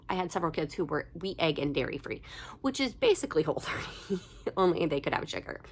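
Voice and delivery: congested voice from a cold; stuffy nose. Real, not acted. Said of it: "I'm getting over a cold".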